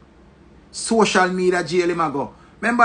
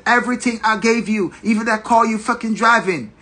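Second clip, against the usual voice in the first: higher mock British accent, indignant; put-on accent of an angry girlfriend; put-on foreign accent; 4 semitones higher than usual. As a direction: imitate her ranting in a foreign accent. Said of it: "the Yankee and the British and the every accent".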